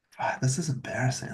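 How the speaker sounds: whispered under the breath, caught out; embarrassed whisper. Retold or imitated. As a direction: mutter it to yourself in shame, barely voiced. Retold embarrassed self-talk.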